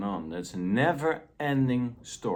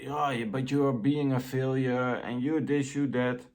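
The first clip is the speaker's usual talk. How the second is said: nagging inner voice; 4 semitones higher than usual. Retold or imitated. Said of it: "the dominant voice will go on".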